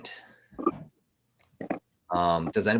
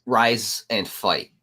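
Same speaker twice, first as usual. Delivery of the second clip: demonic layered voice; 2 semitones higher, much slower than usual. Acted. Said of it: "Mister Demon voice over there".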